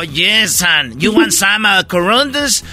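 mom's mock English.

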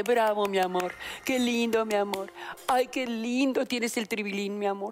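sugary fake praise, hammed-up; mock flattery. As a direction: gush over him mockingly. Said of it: "busca otra que le aplauda". (halago empalagoso y burlón)

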